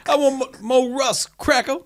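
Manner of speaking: high, laughing toddler impression; laughing mock voice. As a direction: cackle through the cheeky insult. Mocking niece's cheeky insult.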